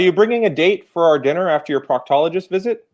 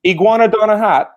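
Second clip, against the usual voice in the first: put-on West Indian accent; 5 semitones higher, 4 dB louder than usual. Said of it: "All the accents are coming in now".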